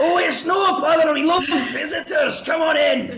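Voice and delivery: booming, very high, loud Scottish dwarf voice. Voicing a dwarf welcoming visitors inside: Scottish accent. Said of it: "he's obviously Scottish 'cause he's a dwarf".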